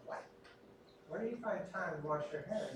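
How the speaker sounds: a mock-incredulous what, wondering where they find time; the blunt reaction he keeps to himself, said with mock disbelief. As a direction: react as if the habit is absurd. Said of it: "But I don't say it".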